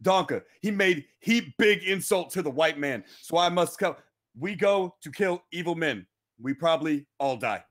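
hint of a movie-style Native American accent, measured phrasing; mock Native American dialect. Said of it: "I'm speaking in ancient Native American dialect".

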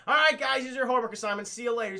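teacher calling out. Retold or imitated. Professor dismissing students with homework, lightly acted call-out.

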